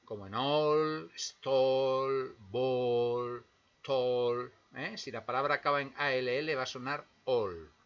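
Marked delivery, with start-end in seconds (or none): 0.3-4.5 "all, stall, ball, tall" each ending in an aw sound; A L L suena all; English all words. Shown as a demonstration. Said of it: "A L L casi siempre suena all".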